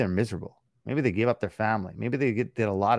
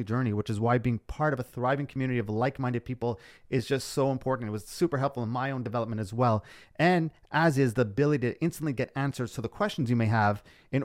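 ad read; 3 semitones higher than usual. Acted. Podcast outro ad read.

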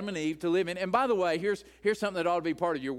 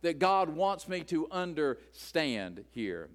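mock surprise; 2 semitones higher, 3 dB louder than usual. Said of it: "and I have to say".

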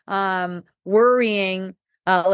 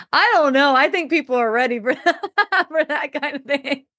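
higher, laughing, slowing at the end; 6 semitones higher than usual. Retold or imitated. Answering the honest bar guy, laughing. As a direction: chuckle through the reply.

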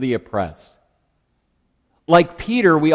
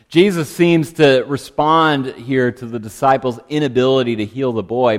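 normal talking voice

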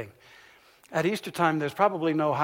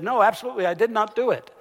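loud denial; 7 semitones higher, 7 dB louder, faster than usual. Retold or imitated. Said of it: "And he said".

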